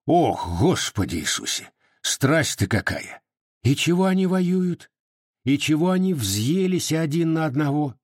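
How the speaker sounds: a hint of a frightened old woman crossing herself; mild fearful old aunt grumbling; lightly voiced old aunt.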